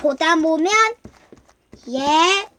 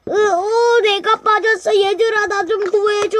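crying for help; 4 semitones higher than usual. Acted. Toy stuck, calling friends.

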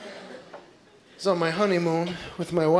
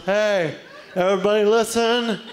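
duck speaker; 3 semitones higher than usual. Pretend. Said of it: "one duck gets up and goes".

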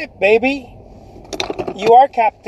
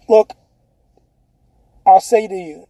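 ordinary delivery

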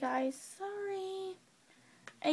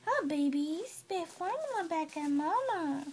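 tag. Real, not acted. Mother cooing to baby.

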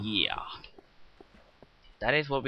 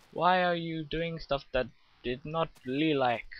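high, drawn-out imitation of a complaining friend; high mock complaint; mock nagging friend; 5 semitones higher than usual. Continues friend's imagined nagging.

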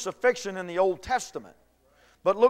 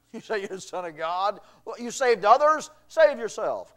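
mocking taunt; 3 dB louder than usual. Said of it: "they begin to mock him".

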